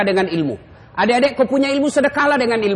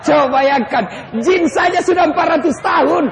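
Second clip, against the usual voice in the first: comic shout; 8 semitones higher, 3 dB louder than usual. Real, not acted. Punchline shouted to congregation.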